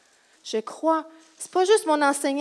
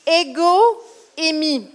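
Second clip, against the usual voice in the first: slow, emphatic quote; 2 semitones higher, slower than usual. Shown as a demonstration. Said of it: "Puis il disait".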